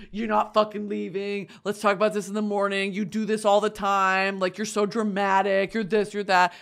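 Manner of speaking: understated angry protest, piling up complaints; angry boyfriend. Acted. Man argues with partner leaving him, mildly angry. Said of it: "he gets angry, of course".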